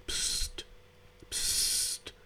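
whispered psst; soothing shush. Acted. The jellyfish calming the quarrelling fish with a whispered hush. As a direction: hush them gently. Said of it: "beschwichtigte sie die Meduse".

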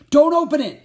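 very high, very loud warning shout; panicked shout. A narrator's reading. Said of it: "Jack shouted".

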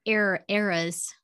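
drawled Southern "eras" with a long stretched vowel; Southern accent. Real, not acted. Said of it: "it's my Southern accent".

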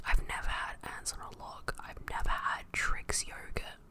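whispering short of breath; running low on air while whispering. Real, not acted. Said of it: "I just had to take a massive breath of air".

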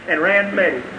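soft drop after a peak; quiet, understated finish; hushed wonder. Real, not acted. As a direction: let it fall soft, almost an aside. Drops down after the climax.

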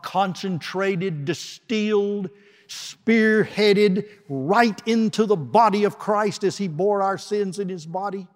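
forceful preaching. Real, not acted. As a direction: drive each word home. Preacher building on God's wrath.

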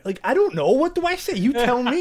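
loud, high-pitched comic exasperation; real exasperation. Real, not acted. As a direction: throw the question back, fed up. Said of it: "drives me up the walls".

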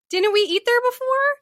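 high, blithe mom impression; mimicked sudden recognition. Daughter mimicking mom remembering a restaurant, blithe curiosity. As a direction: chirp it as an innocent question.

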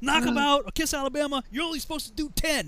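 high-pitched, sustained reprimand; scolding drill sergeant. Retold or imitated.

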